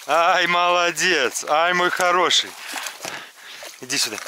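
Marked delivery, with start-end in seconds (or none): 0.0-2.5 praising a dog. Real, not acted. Praising dog after retrieve.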